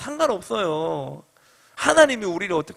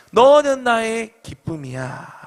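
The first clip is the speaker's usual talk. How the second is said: tender declaration; 3 semitones higher, slower than usual. Shown as a demonstration. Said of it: "우리 좌우로 보고 이야기합시다".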